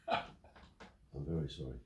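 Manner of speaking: drawn out slowly, soft and low; slow mock-meek apology. Storyteller repeats the bailiff's apology slowly for comic effect. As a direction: savour the bailiff's climbdown, very slowly.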